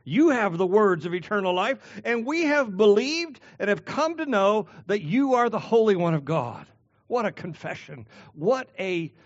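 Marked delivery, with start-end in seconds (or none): 0.0-6.7 firm, fervent proclamation of faith; emphatic declaration. Acted. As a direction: declare it with conviction, slightly louder. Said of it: "Peter emphatically states".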